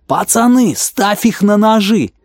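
high, loud, slow bellow; yelling. A narrator's reading. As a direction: roar it at the gang. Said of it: "как заорёт".

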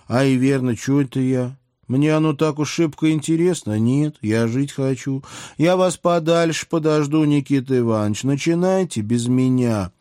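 high, lively princess voice; princess backing off. A narrator's reading. Princess decides to wait far from the blast, high-voiced and hasty.

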